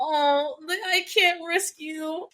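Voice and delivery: sweet protective quote. Retold or imitated. Podcaster quoting Cassian to his love, sweet and slow. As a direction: soften it like a protector who means it. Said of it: "He was so sweet about it".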